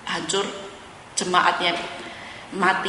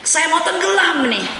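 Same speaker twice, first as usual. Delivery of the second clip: high, slow frightened wail; mock panic; 8 semitones higher, 3 dB louder than usual. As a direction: play a man sure he is sinking. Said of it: "Itu tuh bahasa stres".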